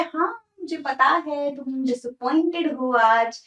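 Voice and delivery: lightly acted, slow drawn-out quote; main character's line. Main character speaks to disappointed writer, lightly acted and slow. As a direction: voice the character slowly, with a light touch. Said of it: "जो हमारा main character है बोलता है".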